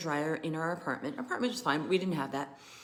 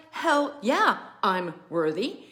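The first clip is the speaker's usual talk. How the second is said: triumphant; 4 dB louder, slower than usual. Real, not acted. Triumphant claim of worthiness.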